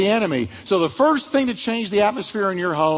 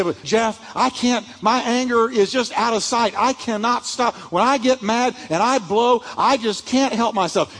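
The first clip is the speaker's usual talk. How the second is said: a hint of a whiny listener, pitched higher; mock excuse; 5 semitones higher than usual. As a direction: lightly play the person making excuses. Mock listener excusing their anger.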